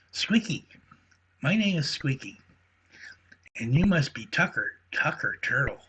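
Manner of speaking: excited squirrel introducing himself to a turtle; eager squeaky squirrel. Acted. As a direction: chatter like an eager little squirrel meeting a hero.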